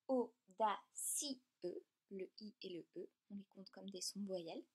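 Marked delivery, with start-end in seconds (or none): 0.1-1.4 audacieux said very slowly, syllable by syllable; slow example word. Shown as a demonstration. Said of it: "comme par exemple". (audacieux, très lentement)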